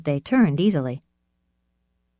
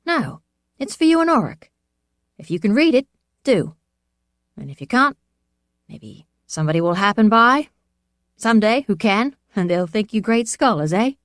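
put-on merry old man; 5 semitones higher, 6 dB louder than usual. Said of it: "He laughed his merry laugh".

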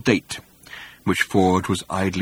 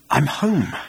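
hoarse; 4 semitones higher than usual. A narrator's reading. Arthur savouring being back in England, hoarse. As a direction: say it high and hoarsely. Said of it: "said Arthur hoarsely".

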